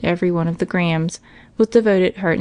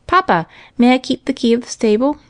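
put-on higher little-boy voice; Johnny asking; 5 semitones higher than usual. A narrator's reading. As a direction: ask father as a hopeful child. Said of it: "asked Johnny".

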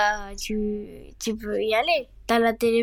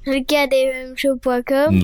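repeated closer to the mic, slower; closer, louder; 2 semitones higher, 5 dB louder than usual. Real, not acted. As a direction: lean in and say it again clearly. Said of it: "t'es loin du micro".

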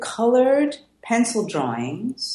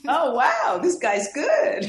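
mock praise; 6 semitones higher, slower than usual. Playing the future art finders.

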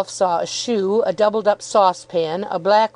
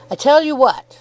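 fierce milkman=57; 6 semitones higher, 4 dB louder than usual. Acted. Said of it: "said the milkman".

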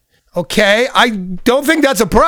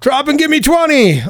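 lightly voiced military commander, pitched up; a hint of a drill instructor; drill general; 5 semitones higher than usual. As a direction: order it like a mock general. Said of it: "here comes general rules".

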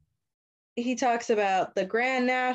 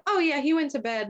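imitated governess; 7 semitones higher than usual. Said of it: "she calls up the governess".

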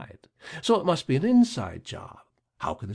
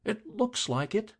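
grimly; 8 semitones higher, 4 dB quieter than usual. A narrator's reading. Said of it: "said the deputy grimly".

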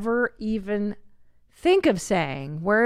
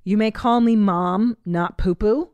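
firm mock rebuke; 5 dB louder than usual. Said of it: "I just wrote some down".

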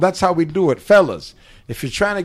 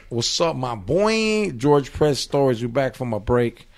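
host intro; slower than usual. Acted. Podcast host welcome back.

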